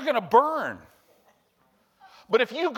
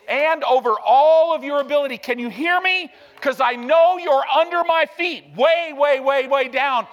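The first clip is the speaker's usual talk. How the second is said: yelled declaration; 3 semitones higher, 6 dB louder than usual. Shown as a demonstration. Preacher shouting scripture at Satan, commanding and loud. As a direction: proclaim it over the enemy at full force. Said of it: "you yell".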